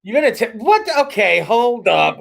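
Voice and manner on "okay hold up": slow drawn out. Shown as a demonstration. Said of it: "Hold, hold up".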